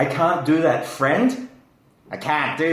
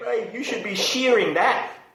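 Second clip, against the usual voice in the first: New Zealand accent, higher pitched; 8 semitones higher than usual. Explaining Australian vowel sounds, the speaker switches into a Kiwi accent. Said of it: "That's more of a Kiwi accent".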